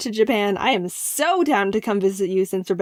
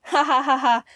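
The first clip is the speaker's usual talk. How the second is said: real laugh; 3 semitones higher than usual. Real, not acted. Laughing at own slogan.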